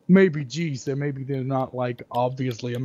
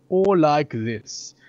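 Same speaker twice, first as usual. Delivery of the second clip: slow, drawn-out mock English accent; bad English accent; 4 dB louder, much slower than usual. Showing a second American imitation of English, mock English accent. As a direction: another American attempt at English, stretched out. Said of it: "tries to talk like English people".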